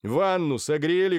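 doctor calling out to the servants, loudly; loud question. A narrator's reading. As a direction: call out so the servants hear. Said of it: "громко спросил Тоннер".

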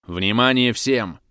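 slow clipped command over a hissing radio. Acted. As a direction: call it out like a crackly radio order. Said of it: "прошипела рация голосом Белкина".

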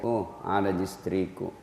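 low, very faint murmur; a dying man barely whispering his wife's name. Retold or imitated. Dying man sees wife. (suara sangat lirih orang sekarat)

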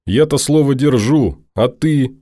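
put-on upset young woman arguing hard; heated girl Norris. Norris angrily argues.

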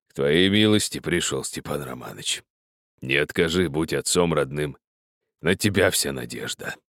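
low, sunken voice near tears; old miner begging the master for help, low and tearful. A narrator's reading. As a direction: plead with a sinking, teary voice. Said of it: "проговорил упавшим голосом, в котором слышались слёзы".

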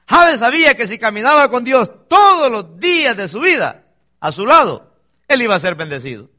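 emphatic, drawn-out key phrases with swelling volume; forceful preaching. Real, not acted. Preacher telling the church about Jabes's prayer, forceful preaching. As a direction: preach it out to the congregation.

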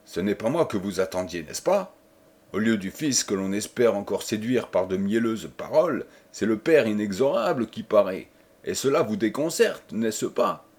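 rudesse contenue, un peu rapide au début; plus de rudesse. Acted. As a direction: vieux seigneur dur et méprisant. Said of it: "avec plus de rudesse encore". (le père reproche à la femme, avec une rudesse contenue)

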